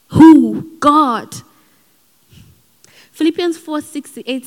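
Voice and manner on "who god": loud "Who?" answered by "God"; call and response. Real, not acted. Preacher calling to the congregation, loud call and answer. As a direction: call out the question.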